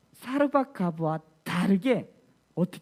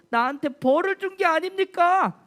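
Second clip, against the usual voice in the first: tearful complaint; 8 semitones higher than usual. Acted. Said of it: "이렇게 얘기하는 거예요".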